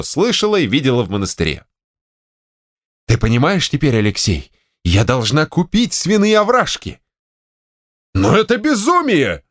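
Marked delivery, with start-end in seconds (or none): 3.1-7.0 higher, pressing demand; insistent wife. Acted. Wife to general, insisting on the purchase. 8.1-9.4 high exasperated exclamation; exclaiming. Acted. General to wife, exclaiming in disbelief. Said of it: "воскликнул генерал".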